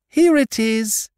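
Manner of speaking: high, loud, stretched-out call; excited cry. A narrator's reading. Christopher Robin finding the present, excited high cry. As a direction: cry out in triumph, high-pitched. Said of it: "cried Christopher Robin excitedly".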